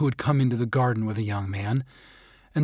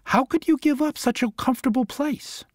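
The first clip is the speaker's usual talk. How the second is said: higher wondering snowman; 11 semitones higher than usual. A narrator's reading. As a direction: ask it as a puzzled snowman. Snowman asks the dog.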